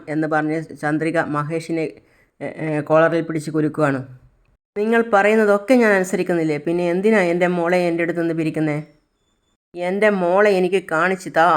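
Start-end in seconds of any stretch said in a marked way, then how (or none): 4.8-11.5 higher and louder, anguished and accusing; a mother's loud anguished plea; desperate pleading shout. Acted. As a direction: cry out at him to give her child back.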